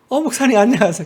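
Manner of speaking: syrupy, ingratiating, fawning sweetness. Retelling greeting a pastor from a car window: mock-sweet, ingratiating greeting. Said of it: "세상 가장 간사하고 상냥한 목소리로".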